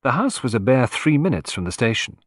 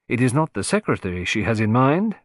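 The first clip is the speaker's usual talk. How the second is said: musing. Acted. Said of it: "mused Poirot".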